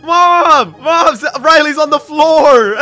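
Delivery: loud, high alarmed call; urgent shout for mom. Pretend. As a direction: yell for mom that sister collapsed. Alarm calling mom to fallen sister.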